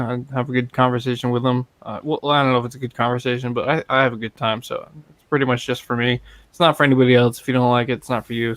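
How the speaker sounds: muffled, hand over mouth. Real, not acted. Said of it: "are you talking with your hand over your mouth".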